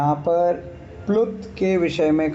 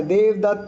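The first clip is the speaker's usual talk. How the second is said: देवदत्त called with a stretched last vowel; calling out; 4 semitones higher than usual. Shown as a demonstration. Teacher calling a name to show pluta. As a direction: hail देवदत्त from afar. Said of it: "हम आवाज़ लगा रहे".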